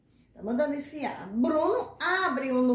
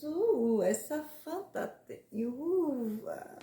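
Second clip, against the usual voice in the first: mock customer; slower than usual. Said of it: "você diz".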